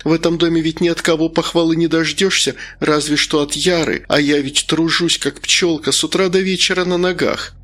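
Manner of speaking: lightly voiced plaintive cook; a hint of self-pitying lament; complaining cook. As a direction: grumble like an unappreciated cook. Cook complains about missing praise.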